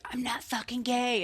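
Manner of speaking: mock indignant denial. Guest retells her boyfriend's answer when she told him, mock indignation. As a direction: imitate his offended denial, drawn out.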